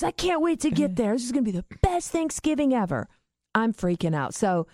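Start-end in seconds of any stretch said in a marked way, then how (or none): 0.0-3.1 milder mock glee, pitched up and rushed; imitating tickled laughter. Brother eager to come see stoned dad, gleefully tickled. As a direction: rush it out in gleeful anticipation. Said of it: "He starts laughing so hard he's crying".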